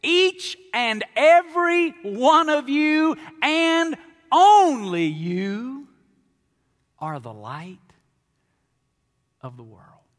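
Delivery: "Each and every one of you and only you" drawn out, high and loud, then fading; emphatic slow reading. Shown as a demonstration. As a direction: stretch each word out, then drop to a hush. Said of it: "translate this verse like this".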